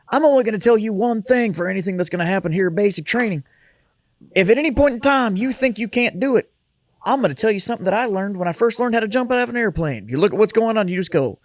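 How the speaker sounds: a hint of a drill instructor addressing recruits; lightly voiced drill instructor. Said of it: "he's like".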